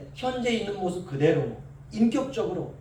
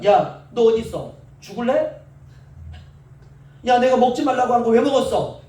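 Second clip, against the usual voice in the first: hypothetical furious scolding, a bit louder; mock angry scolding; 5 dB louder than usual. Imagined angry God scolding disobedient Adam, mock fury. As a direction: play an irate father catching his son. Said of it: "얼마나 열받으시겠습니까".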